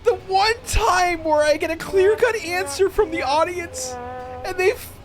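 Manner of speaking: disbelieving laughing rant; real laugh-cry, voice cracking high; crying with laughter. Real, not acted. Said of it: "Oh, I'm crying".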